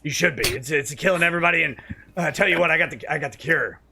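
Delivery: lightly voiced Alex Jones sales pitch; hint of a conspiracy huckster. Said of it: "I'll do the Alex Jones voice".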